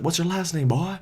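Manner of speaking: the stranger taunting the boy, a mock bully voice. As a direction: needle him like a bullying stranger. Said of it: "And the guy's like".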